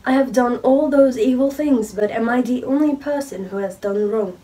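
reading in a light British accent; showing off a British accent. Shown as a demonstration. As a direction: read it in a British accent, unhurried. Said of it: "British aksanımda şöyle bir şey merak edenler varsa".

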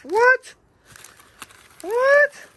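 very high, loud squealed what; surprised squeal. Real, not acted. Squealing in disbelief at June's gifts. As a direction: shriek of disbelief. Finding more gifts inside.

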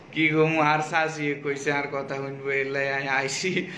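chatty Noakhali Bengali; Noakhali dialect. Shown as a demonstration. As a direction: speak in Noakhali dialect on request. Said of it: "Noakhali ভাষা বলবে".

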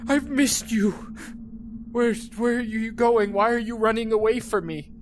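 put-on high whiny child voice calling after dad; mock needy child. Pleading with fleeing game dad.

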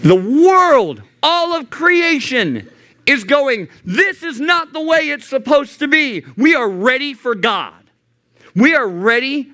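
high, ringing sermon climax; fervent preacher's cry; preaching at full force. Acted. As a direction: lift it like the peak of a sermon. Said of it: "preaching at full force".

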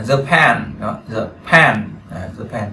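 Japan stressed on \"pan\"; said over and over to model it; stress shown. Shown as a demonstration. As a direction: lean on the second syllable of Japan. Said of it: "đánh trọng âm ở đó".

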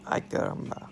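mock yelp at the doctor; ay caramba. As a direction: exclaim it, a bit hammed-up. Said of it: "That's what I said".

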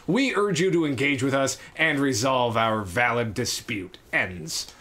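steady, formal read of an official notice; dry, formal reading of a strike notice; formal letter reading. Acted. Reads the union letter aloud.

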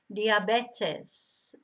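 "Diabetes" as dee-ah-BEH-tes; Spanish pronunciation. Shown as a demonstration. Teacher modelling the Spanish word, "Diabetes" as dee-ah-BEH-tes. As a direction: say "Diabetes" with pure Spanish vowels. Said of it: "is the way it's pronounced".

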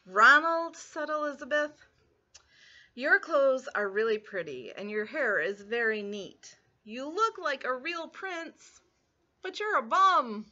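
sugary praise ending in a loud bum; mock sweet then blunt. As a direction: flatter then deliver the insult. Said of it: "Elizabeth tells Ronald off".

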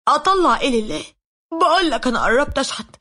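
angry retort. Retold or imitated. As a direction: snap back at your friend with mock fury. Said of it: "اتعصبت عليه وقلت له".

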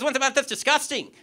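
high, loud disgusted rebuke; appalled outburst. Retold or imitated. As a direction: imitate a horrified stranger scolding. Shocked man scolds, acted.

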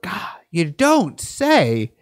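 slow, dry sarcasm; sarcastic drawl. Real, not acted. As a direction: say it dripping with sarcasm. Sarcastic response to article.

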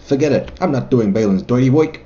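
tough New York wiseguy accent. Shown as a demonstration. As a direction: say it like a brash New Yorker. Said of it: "my little New York accent there".

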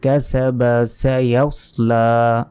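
কাসাবা with a full জবর on the final বা; slow, no stop at কাসাবা; reading without stopping. Shown as a demonstration. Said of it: "এটা বলছি যে".

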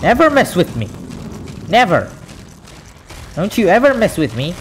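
taunting threat. Real, not acted. Taunting after winning.

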